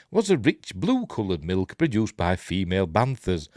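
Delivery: lively, lilting news read; article read aloud. Acted. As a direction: read the story out like a light news item.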